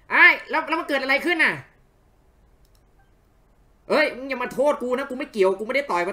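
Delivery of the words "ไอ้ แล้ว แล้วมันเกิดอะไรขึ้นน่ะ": much higher and louder, stunned; startled line. Acted. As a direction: blurt it out in alarm. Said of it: "กูพากย์ผิด". (พูดตกใจเสียงสูงดัง)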